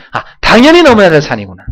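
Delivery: 당연히 hit high and loud, a bright sudden realization; 당연히 said loud and high as a sudden insight; realizing exclamation. Shown as a demonstration. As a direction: exclaim it like you just understood, stressing 당연히. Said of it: "갈등이 찾아오면".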